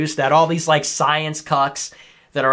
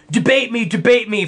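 pitched-up mimicry of a debater; mock a pestering debate challenger; 5 semitones higher than usual. Mocking the debate-me crowd, mocking higher voice.

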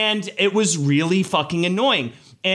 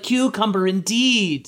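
higher-pitched mock affirmation; imitated TV co-host; 4 semitones higher, slower than usual. Host humoring the fake Spaniard, higher mock-approving voice. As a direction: play the humoring show host. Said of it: "the lady with her's like".

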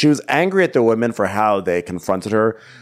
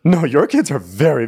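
mock laughing mother; 7 semitones higher than usual. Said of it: "And Manjula goes".

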